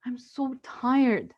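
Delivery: slow, worn-out sigh of a line; tired. Retold or imitated. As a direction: drag it out, exhausted. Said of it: "And so I told him".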